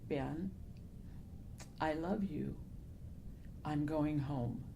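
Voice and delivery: soft, low-energy words with long broken pauses; weak, hesitant voice. Retold or imitated. Author retelling the voice she heard while driving, weak and hesitant. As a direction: imitate a faint, faltering voice, slowly. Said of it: "very broken and very hesitant, weak voice".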